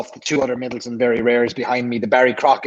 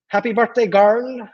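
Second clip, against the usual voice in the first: bright, higher birthday wish; cheery birthday greeting; 8 semitones higher, slower than usual. Real, not acted. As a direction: sing out a happy birthday.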